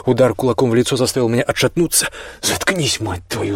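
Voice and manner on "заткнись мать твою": a mild shouted outburst at his brother; angry brother's short yell, not full force. Acted. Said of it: "заорал Джейс".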